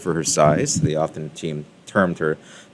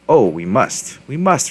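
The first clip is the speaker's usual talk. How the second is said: the second must rising high; eager little echo; chirpy chime-in; 6 semitones higher, 4 dB louder, slower than usual. A narrator's reading. Rooster Booster chiming in to Henny Penny, chirpy agreement. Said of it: "chimed in".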